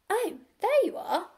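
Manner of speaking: high, loud farm wife's call. A narrator's reading. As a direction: call out to someone across the yard. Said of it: "called Missus Hoggett".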